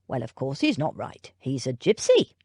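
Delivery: dismissive servant, low and blunt; a hint of a rough young footman; William the footman.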